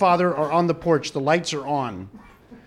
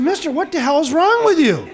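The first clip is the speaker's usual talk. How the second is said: higher-pitched retold challenge; exasperated mock demand, pitched up; indignant confrontation; 8 semitones higher, 4 dB louder than usual. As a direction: call out a stranger's odd behavior, acted out. Teller confronts odd audience member.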